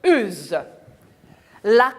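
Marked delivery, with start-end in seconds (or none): 0.0-0.6 "Use" ending on a voiced z. Shown as a demonstration. Teacher confirms the rule for children, "Use" with voiced z. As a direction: let "Use" buzz at the end. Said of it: "Elle me donne le son Z".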